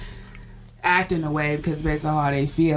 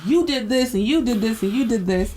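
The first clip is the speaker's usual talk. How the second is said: mock blaming; 5 semitones higher than usual. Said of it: "instead of just saying".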